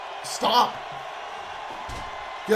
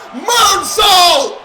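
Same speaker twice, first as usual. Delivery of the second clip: higher, louder move call; excited shout; 8 semitones higher, 9 dB louder than usual. Real, not acted. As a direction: pop the move name. Commentator calls big move.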